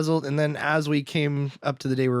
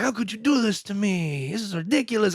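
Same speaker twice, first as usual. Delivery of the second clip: higher-pitched mild complaint; playful retold outrage; mock indignation; 5 semitones higher than usual. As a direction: act out a husband mildly outraged at his wife. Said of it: "mad at his wife".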